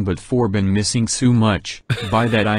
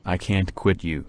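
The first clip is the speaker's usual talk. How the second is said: robot voice; 3 semitones lower, 6 dB quieter than usual. Acted. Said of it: "Can you hear the robot voice?".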